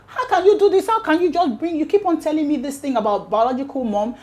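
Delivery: hammed-up outrage, half laughing; retold angry outburst. Agatha furious at father's retold outburst.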